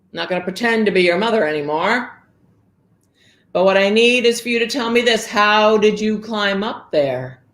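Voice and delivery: lightly voiced ogre interrogating. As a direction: press her hard for answers. Ogre demands the truth.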